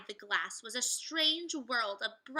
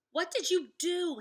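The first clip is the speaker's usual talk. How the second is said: put-on high, loud, slow worried boy; alarmed Jack; 7 semitones higher, 7 dB louder than usual. Jack asking Annie what she did, high and alarmed. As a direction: Jack demanding an answer in alarm.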